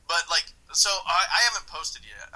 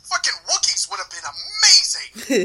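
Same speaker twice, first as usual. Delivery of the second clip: higher, louder, slower, laughing through it; excited gush; 6 semitones higher, 7 dB louder than usual. Retold or imitated. Quoting his own reaction to the cohost, gleeful laughing gush. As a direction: gush like a fan who wanted Wookiees.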